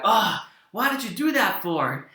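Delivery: mildly exasperated, pitch lifting in complaint; exasperated mock protest. Player scolding a game character he roots for, exasperated. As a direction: play a head-shaking complaint.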